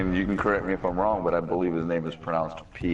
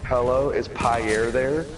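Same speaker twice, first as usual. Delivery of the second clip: imitating phone caller; 4 semitones higher, slower than usual. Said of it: "and it was like".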